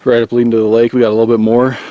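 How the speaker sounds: out of breath from the climb; panting after a steep ascent; heavy breathing. Real, not acted. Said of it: "you can probably hear me breathing heavy".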